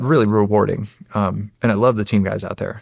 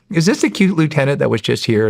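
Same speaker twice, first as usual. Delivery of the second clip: imitating a giddy woman, pitched up; 4 semitones higher than usual. Housing woman phoning the young officer, imitated giddy. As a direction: play her giddy, a bit higher. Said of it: "she's, like, giddy".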